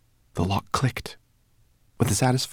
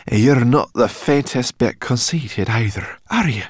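sarcastic; 5 semitones higher, 6 dB louder than usual. Acted. Sorrel sarcastic.

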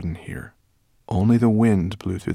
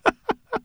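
squeaky giggle. Acted. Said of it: "giggling at the sight of him".

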